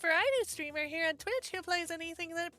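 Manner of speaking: put-on chirpy anime girl intro; cute anime girl voice. Shown as a demonstration. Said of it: "I'm gonna sound like this".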